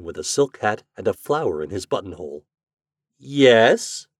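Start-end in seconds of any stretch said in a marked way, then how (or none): 3.2-4.1 higher, puzzled, questioning yes; wondering. A narrator's reading. Boy tapped by a well-dressed stranger, wondering. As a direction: answer as if wondering why he asks. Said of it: "answered the boy wonderingly".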